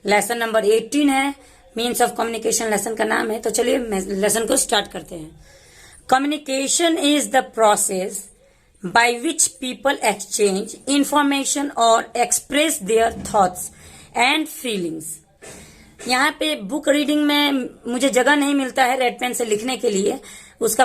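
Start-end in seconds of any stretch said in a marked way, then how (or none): 6.1-15.0 very slow, word-by-word textbook reading; slow lesson read-aloud. Shown as a demonstration. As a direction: read it out slowly with pauses between phrases. Reads the lesson aloud slowly.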